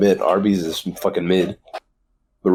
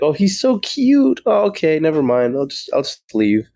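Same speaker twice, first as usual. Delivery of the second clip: high mock woman voice; 7 semitones higher than usual. Dog owner's reaction, voiced quote.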